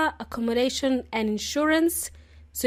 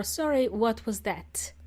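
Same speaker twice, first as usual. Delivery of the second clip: polite request; 6 dB quieter than usual. Shown as a demonstration. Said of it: "simply say".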